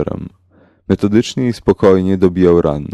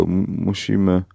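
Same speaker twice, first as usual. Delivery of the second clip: stammering, lost; 6 dB quieter, slower than usual. A narrator's reading. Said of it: "zaczął Mick nie wiadomo do kogo".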